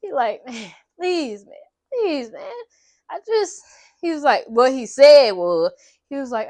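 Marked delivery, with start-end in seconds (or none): 0.4-3.6 imitated plea, climbing in pitch; retold begging. Captive still begging captor to free him, retold pleading. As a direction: plead with her, lightly acted. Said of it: "He really trying".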